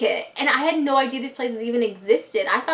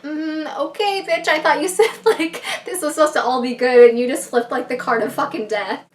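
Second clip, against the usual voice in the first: louder, higher, sassy telling-off; sassy callout; 4 semitones higher, 6 dB louder than usual. Retold or imitated. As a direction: call her out with mock outrage. Sassy callout over death card.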